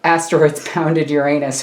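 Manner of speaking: loud, giggle breaking into the words; fighting laughter. Real, not acted. Vlogger can't say the silly sentence without laughing, cracking up loudly. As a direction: try and fail to say it straight. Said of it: "I still can't say the sentence".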